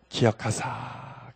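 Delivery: slow breathy whisper of 기억하사; 기억하사 whispered softly and drawn out; hushed key word. Acted. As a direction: drop to a whisper and stretch 기억하사 out slowly. Key word of scripture reading.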